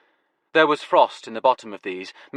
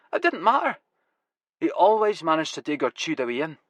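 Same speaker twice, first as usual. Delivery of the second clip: put-on broad Glasgow accent, higher, grumbling; 7 semitones higher than usual. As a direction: Glaswegian farmer cursing the rats. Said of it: "his Glasgow accent now going full throttle".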